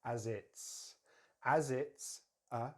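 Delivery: "as it's a" with "a" as "uh"; linked, with schwa. Shown as a demonstration. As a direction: connect "as it's", weak "a". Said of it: "we can use the schwa here".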